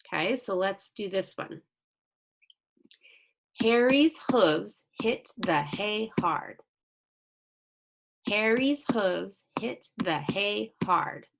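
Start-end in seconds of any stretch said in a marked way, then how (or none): 3.6-11.3 slow, measured beats through "Harry's hooves hit the hay hard"; syllable by syllable. Shown as a demonstration. Teacher counts syllables for pupils, "Harry's hooves hit the hay hard" slow and separated. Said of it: "That one has seven syllables".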